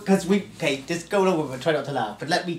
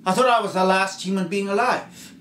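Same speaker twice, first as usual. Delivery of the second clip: amazed last survivor; 7 semitones higher, 7 dB louder than usual. Acted. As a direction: let the loneliness break out. Survivor's amazed speech begins.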